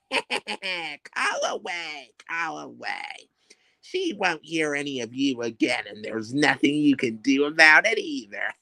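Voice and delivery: scheming witch, wild pitch swings from hiss to shriek; wicked witch. Acted. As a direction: gloat over the poison like the Wicked Witch. Witch gloats over sleeping Dorothy.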